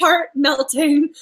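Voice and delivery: a book fan melting over the hero, slow and swooning. Retold or imitated. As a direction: stretch it out like you're melting.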